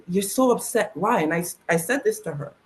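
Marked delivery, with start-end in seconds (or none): 0.1-1.2 softly voiced mother. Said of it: "She said".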